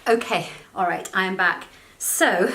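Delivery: gasping between phrases after the stairs; breathless, just ran upstairs; out of breath. Real, not acted. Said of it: "and I'm out of breath".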